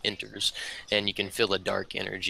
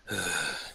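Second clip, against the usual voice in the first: deep, drawn-out eerie breath; demonic breathing; 3 semitones lower, 6 dB quieter than usual. Acted. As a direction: breathe out heavily like a lurking demon. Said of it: "almost demonic breathing".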